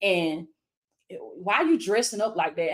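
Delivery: the enemy murmuring doubts in her ear, only lightly voiced; mocking enemy whisper. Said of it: "the enemy trying to whisper in my ear".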